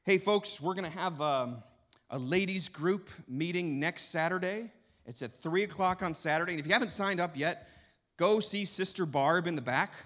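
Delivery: church announcer parody. Retold or imitated. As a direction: ham up a rambling church announcement. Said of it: "this is what announcements sound like".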